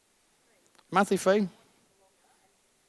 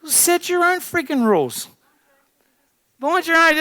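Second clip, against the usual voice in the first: high, loud rousing command; rally the room; fired-up exhortation; 11 semitones higher, 4 dB louder than usual. Real, not acted. Coach pumping up the audience, high and excited.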